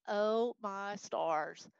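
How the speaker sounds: slow, drawn-out Texas "Oh my stars"; a slow Southern drawl on "Oh my stars"; Texas exclamation. Shown as a demonstration. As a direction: stretch it out like a Texas lady. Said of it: "this is my Texas language".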